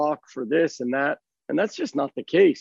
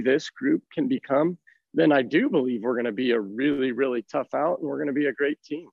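raspy, worn-out voice; hoarse voice; 2 semitones lower than usual. Real, not acted. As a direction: talk through a losing voice. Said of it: "more raspy", of the speaker himself.

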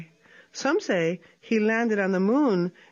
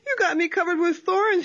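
mild wail; 9 semitones higher than usual. Acted. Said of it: "he wailed".

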